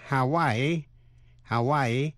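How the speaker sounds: Hawaii as "ha-WAI-ee"; three syllables. Shown as a demonstration. Teacher modelling a state name, Hawaii in three syllables. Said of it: "phát âm làm ba vần".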